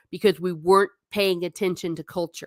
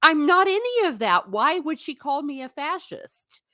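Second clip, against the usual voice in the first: imitating Barbie; 7 semitones higher than usual. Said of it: "She's like".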